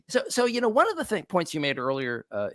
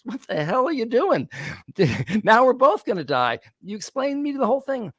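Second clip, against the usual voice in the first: frog's outcry; 9 semitones higher than usual. Acted. Dying frog cries out.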